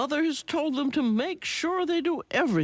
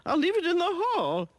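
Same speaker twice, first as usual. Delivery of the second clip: Miss Bleating; 7 semitones higher than usual. A narrator's reading. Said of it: "Miss Bleating replies".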